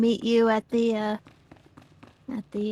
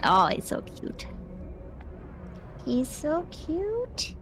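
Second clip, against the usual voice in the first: little dog voice; 6 semitones higher, 5 dB quieter, slower than usual. Real, not acted. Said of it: "talk to your little dog voice".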